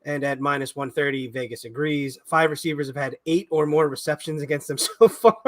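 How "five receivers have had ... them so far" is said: the stat dissolves into a laugh; can't help laughing. Real, not acted. Co-host citing an absurd betting stat, unable to keep from laughing. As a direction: break into laughter at the end. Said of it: "can't even say it without laughing".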